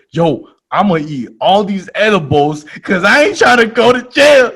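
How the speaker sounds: loud high frantic declaration; mock shout of desperation; hammed-up frantic yell. Retold panic to friend.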